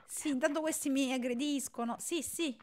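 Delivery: unvoiced hushed aside; whisper. Real, not acted. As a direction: breathe it out under the breath. Unvoiced aside while attacked.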